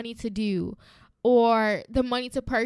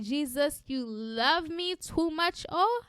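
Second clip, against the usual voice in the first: mock scream of praise; 4 semitones higher, slower than usual. Host showing how she screams along to the song, mock scream. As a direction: stretch it out, climbing very high on the last word. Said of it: "when I tell you I'm screaming".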